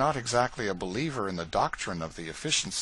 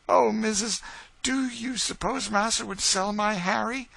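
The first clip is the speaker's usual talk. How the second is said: pleading Eliza; 13 semitones higher, 5 dB louder than usual. Acted. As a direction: plead with her mistress on the edge of tears. Eliza fears for her son.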